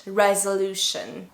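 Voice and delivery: "resolution" slowly, with the O as uh; schwa in the middle. Shown as a demonstration. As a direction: model "resolution" slowly as rez-uh-LOO-shun. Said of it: "It's called the schwa".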